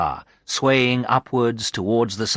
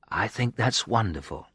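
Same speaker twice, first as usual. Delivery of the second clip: drowsy and soft; sleepy; 6 dB quieter than usual. Acted. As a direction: say it half asleep. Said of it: "I said sleepily".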